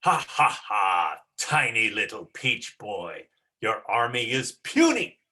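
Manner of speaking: a hint of a gloating ogre, laughing at the hero. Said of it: "and the ogre says".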